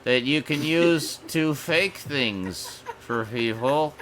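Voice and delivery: mock polite greeting. Host greets imagined deepfake bots, slow mock-friendly. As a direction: sweetly address the data thieves, slowly.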